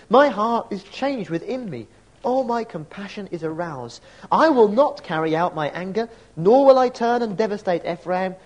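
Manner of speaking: measured, solemn reading of God's plea; scripture reading. Acted. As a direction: read it as a grieving father pleading. Reads God's words from Hosea.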